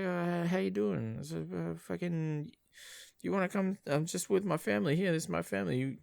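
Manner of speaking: high-pitched put-on voice; mock friendly chat. Old friend inviting Dusty to meet Kobe, high mock-friendly voice. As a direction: pitch it well up, like a casual invitation.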